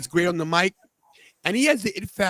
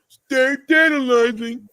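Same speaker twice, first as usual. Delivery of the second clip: loud, high, drawn-out sign-off; catchphrase shout; 6 semitones higher, 6 dB louder, slower than usual. Acted. Host showing off his catchphrase, loud drawn-out shout. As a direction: holler it slowly like a slogan.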